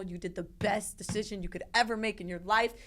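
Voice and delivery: mildly emphatic mock pep talk; imitating hype-up praise. Staff hyping up a patient afterwards, mock encouragement. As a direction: push the praise with heavy emphasis. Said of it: "hype you up".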